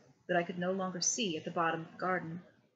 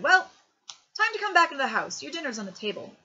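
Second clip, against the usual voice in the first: higher, louder father voice calling across the garden; father calling his son in to dinner, higher and louder; 8 semitones higher, 9 dB louder than usual. A narrator's reading. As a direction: call him in for dinner. Father calls boy in.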